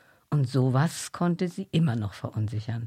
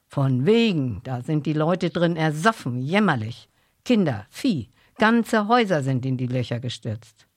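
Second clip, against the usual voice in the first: put-on old farmer voice; 6 dB louder than usual. Old farmer describes drownings.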